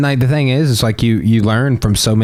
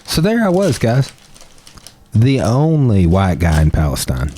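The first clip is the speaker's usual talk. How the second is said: storyteller. Retold or imitated. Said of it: "I'm like".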